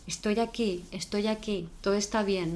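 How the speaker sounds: soft, calm comforting words to a frightened dog; soothing reassurance. Shown as a demonstration. Owner comforting her shaking dog, softly reassuring. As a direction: murmur it gently, like holding a trembling animal.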